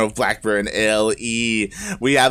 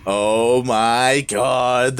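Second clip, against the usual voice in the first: stunned disbelief; much slower than usual. Real, not acted. Stunned after big play.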